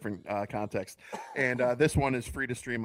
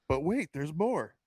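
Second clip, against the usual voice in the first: sarcastic; 4 semitones higher, slower than usual. Retold or imitated. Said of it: "It's like".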